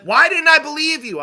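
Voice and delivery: loud, very high exaggerated wail; hammed-up imitation of a regretful friend; mock lament. Ex-girlfriend lamenting after breakup.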